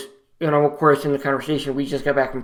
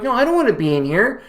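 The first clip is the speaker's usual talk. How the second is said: higher, begging to go home; patient begging the doctor, voice pitched up; upset pleading; 5 semitones higher than usual. Retold or imitated. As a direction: plead to leave for the holiday. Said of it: "I'm so upset".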